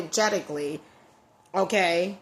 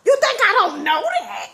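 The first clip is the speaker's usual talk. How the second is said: laughing; 11 semitones higher, 6 dB louder than usual. Real, not acted. Laughing at her own grandma.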